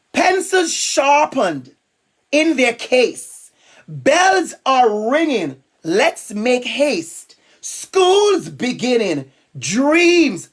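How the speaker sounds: slow, measured picture-book read-aloud; reading to children. Acted. Teacher reading a school rhyme to listeners, slow read-aloud. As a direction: draw out each phrase, pausing between lines.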